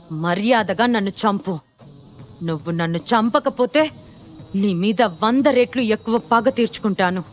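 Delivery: understated furious threat; mild angry yell. Acted. Gentil daring Shiva to kill him, restrained angry yell. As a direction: dare him angrily, without a full shout. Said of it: "గట్టిగా అరుస్తూ అన్నాడు".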